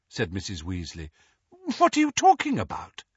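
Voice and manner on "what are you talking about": alarmed mother. Acted. Mrs Weasley alarmed.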